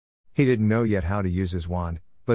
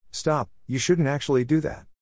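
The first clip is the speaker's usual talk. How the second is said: higher, hurried panicky plea; 6 semitones higher than usual. A narrator's reading. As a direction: blurt out a frightened warning. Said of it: "his voice suddenly panicky".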